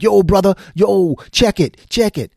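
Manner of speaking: loud, drawn-out mock rapper greeting; hammed-up yo check it; mock street slang. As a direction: ham up a wannabe gangster hello. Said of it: "I didn't be like".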